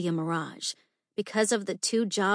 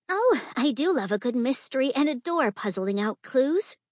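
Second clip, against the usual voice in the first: higher-pitched, lightly tittering society lady; 5 semitones higher than usual. Acted. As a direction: gush as a lady dressed as a princess.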